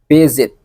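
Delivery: visit with a voiced Z in the middle; correct pronunciation. Shown as a demonstration. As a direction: say "visit" with a buzzing Z. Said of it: "The correct one is".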